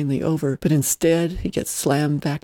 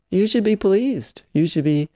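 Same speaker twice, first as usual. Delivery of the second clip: mocking pseudo-cultured voice; 4 semitones higher than usual. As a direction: parody the aunt's put-on refinement. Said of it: "pseudo-cultured voice".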